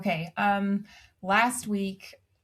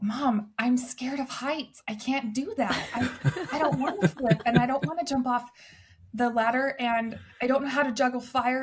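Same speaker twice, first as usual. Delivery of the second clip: imitating a panicky little boy, pitched higher, half laughing; mock upset child near tears, voice pitched up; scared kid; 5 semitones higher than usual. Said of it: "he's almost in tears".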